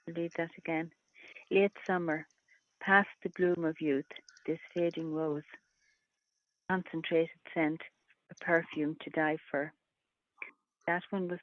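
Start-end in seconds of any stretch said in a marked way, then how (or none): 1.5-9.7 measured poem recital; unhurried verse, phrase by phrase; tanka reading. Acted. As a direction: read short lines with a pause after each. Reads the tanka a second time.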